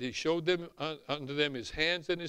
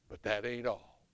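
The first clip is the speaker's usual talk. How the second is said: southern black accent; 7 semitones lower, 5 dB quieter than usual. Real, not acted. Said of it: "Excuse my southern talk".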